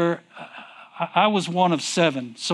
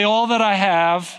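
call to repeat; 3 semitones higher, 3 dB louder than usual. Shown as a demonstration. Preacher calling the church to repeat, loud. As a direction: lead the phrase out strongly for repetition.

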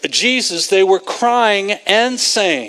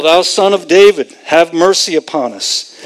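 mild mock yell; 2 semitones lower, 4 dB louder than usual. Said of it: "they're still continuing to yell".

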